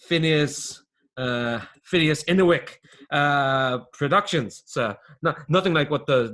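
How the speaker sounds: halting, emphatic sales patter; defensive small-time dealer. Acted. Phineas shows his own snuff to the boss, defensively proud. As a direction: tout your own brand, fumbling for its grand name.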